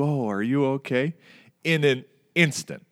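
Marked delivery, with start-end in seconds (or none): 0.0-1.1 mild caring question, slightly raised pitch; imitated concern. Teller repeats the driver's turn from irate, imitated concern. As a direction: retell the sudden turn to concern. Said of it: "He went from irate to".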